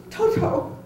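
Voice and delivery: high, loud shocked cry of "Toto!"; excited cry. Retold or imitated. Shy guest blurting out when the dog is taken, excited cry. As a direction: cry out as if the dog's been taken. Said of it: "he goes".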